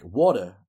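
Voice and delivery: "water" with a New York "waw" vowel; New York pronunciation of water. Shown as a demonstration. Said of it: "every time I say water".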